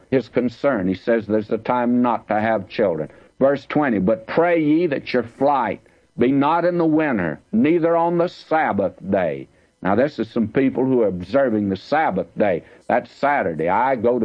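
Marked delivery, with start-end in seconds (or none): 4.0-9.5 scripture reading. Acted. Reads scripture aloud.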